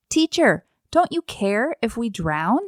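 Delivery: mildly desperate retold cry; hurled question. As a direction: call out a reproachful plea to the teacher. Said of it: "they hurled that same question".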